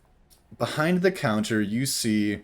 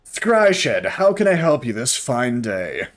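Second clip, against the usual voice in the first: cheery shop robot; 2 semitones higher, 3 dB louder, slower than usual. Acted. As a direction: greet the customer like an eager machine. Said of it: "The construct turns to you and goes".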